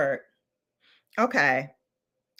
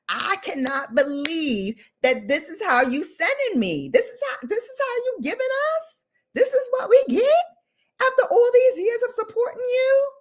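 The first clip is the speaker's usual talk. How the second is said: high, sobbing mock wail of betrayal; hammed-up crying to a makeup brand that let her down; 11 semitones higher than usual. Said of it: "Do you know that you had".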